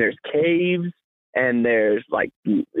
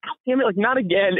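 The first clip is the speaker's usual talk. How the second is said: higher, exasperated dog voiceover; a put-upon pet grumbling in a higher voice; dog's voice; 5 semitones higher than usual. Retold or imitated. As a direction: voice the fed-up dog griping. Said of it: "looks at me and goes".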